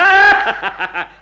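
loud, high mocking laugh; scornful laugh. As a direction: burst out laughing at him. Citizen mocks the magistrate.

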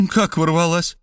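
shocked, high-pitched question; astonished gasp. A narrator's reading. Maria reacts to news of an intruder, astonished. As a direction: gasp it in disbelief. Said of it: "ахнула Мария".

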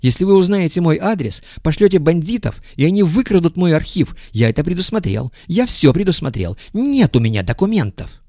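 high, thin-voiced shout; thin high cry. A narrator's reading. Guest refusing to show papers, thin high cry. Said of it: "тоненьким голосом закричал гость".

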